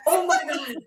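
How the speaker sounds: loud cry turning to high tearful laughter; stunned disbelief. Real, not acted. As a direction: squeal in real shock. Guest appears live, total shock.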